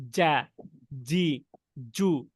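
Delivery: "যা, জি, জু" as firm syllables with no puff of air; non-hams letters. Shown as a demonstration. Teacher showing letters outside hams, "যা, জি, জু" firm and airless. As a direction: say "যা, জি, জু" one by one, voiced and breathless. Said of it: "যেরকমটা আমরা হামসের বাইরের হরফগুলোর ক্ষেত্রে করি".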